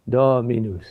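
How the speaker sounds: Dominus with a long DO, falling through minus; dactyl stress. Shown as a demonstration. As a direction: stress the first syllable of Dominus and let it descend. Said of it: "is the Greek for a finger".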